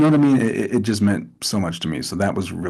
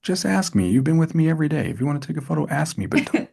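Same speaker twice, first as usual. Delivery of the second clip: scolding Cena; 6 semitones higher than usual. Retold or imitated. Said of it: "He's like".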